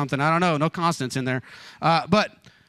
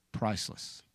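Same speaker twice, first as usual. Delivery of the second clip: soft breathy whisper of the word, much softer; whispered echo; 5 semitones lower, 10 dB quieter than usual. Shown as a demonstration. Preacher whispering the key word to the congregation, hushed. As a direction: let the word fall to a whisper.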